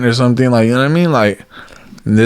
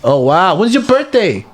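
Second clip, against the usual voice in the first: much higher, bubbly charm; overly friendly greeting; 11 semitones higher than usual. Retold or imitated. Greeting a friend's wife at his house, high bubbly charm. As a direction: lay on the charm, pitched way up. Acted chatting up Jessica.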